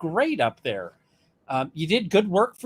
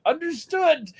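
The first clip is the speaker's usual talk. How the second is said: high, crisp dutiful "Understood"; mock formal; 11 semitones higher than usual. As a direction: play the obedient junior, hammed-up. Answers stern judge.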